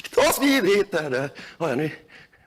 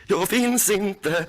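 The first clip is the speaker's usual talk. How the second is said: slow mantra; much slower than usual. Real, not acted. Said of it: "Gå inom dig".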